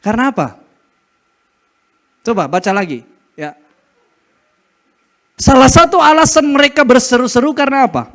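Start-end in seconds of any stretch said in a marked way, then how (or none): none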